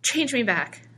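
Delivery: high, urgent plea; pleading. A narrator's reading. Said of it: "George pleaded".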